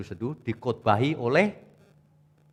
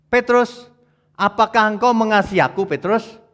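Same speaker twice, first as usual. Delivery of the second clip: raised, louder voice of Jesus pleading with Petrus; voicing Jesus; 8 semitones higher, 8 dB louder than usual. Preacher voicing Jesus asking Petrus, raised and earnest. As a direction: call out Petrus's name and ask earnestly, higher and louder.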